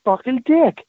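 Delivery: very high, slow exasperated rant; exasperated sergeant major. Retold or imitated. Sergeant major snapping at the stammering private, very high exasperation. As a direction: stretch it out high in disbelief. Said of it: "and he goes".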